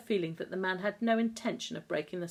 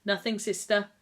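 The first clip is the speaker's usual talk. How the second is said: shaky; 4 semitones higher, 6 dB louder than usual. A narrator's reading. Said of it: "said the nurse shakily".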